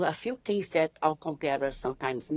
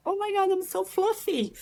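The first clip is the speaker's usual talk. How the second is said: much higher, giggling dismay; laughing at herself. Retold or imitated. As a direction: laugh through the embarrassment. Seeing her own photo.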